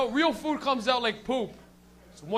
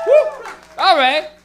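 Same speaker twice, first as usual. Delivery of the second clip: big, loud, high whoop to rally the room; crowd hype whoop; 10 semitones higher, 13 dB louder, much slower than usual. Real, not acted. Hyping the crowd.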